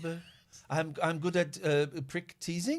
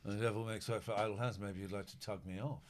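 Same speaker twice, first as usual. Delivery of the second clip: sleazy low murmur; 6 semitones lower, 9 dB quieter than usual. Pretend. Sleazy riff on film line.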